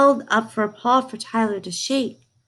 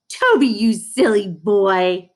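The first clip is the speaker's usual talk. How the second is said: fond chiding; 5 dB louder, slower than usual. A narrator's reading. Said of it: "she kept saying".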